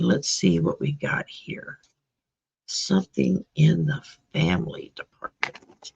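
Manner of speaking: soft whisper under her breath. Real, not acted. Whispering to herself while drawing cards for Maureen.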